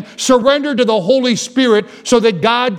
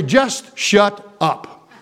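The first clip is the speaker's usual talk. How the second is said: mom's retort; much slower than usual. Retold or imitated. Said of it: "Sometimes she'd turn around and say".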